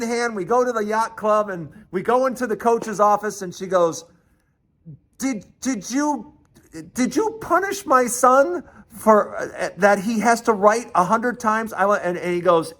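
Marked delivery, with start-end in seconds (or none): 5.2-11.7 imitating an outraged mother confronting a coach; indignant confrontation.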